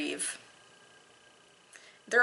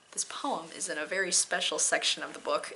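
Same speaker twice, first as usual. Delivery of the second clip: whisper; 5 dB quieter than usual. Real, not acted. Mock-secret intro.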